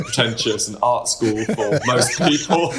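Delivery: breaking into laughter at the end; amused. Real, not acted. Band member joking to radio host about pretension, amused, laughing. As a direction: let a laugh overtake the last words.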